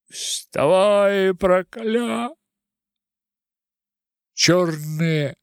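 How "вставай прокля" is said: high, loud call to rise up; a sudden raised cry; urgent shout. Acted. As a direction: yell it to rouse the crowd.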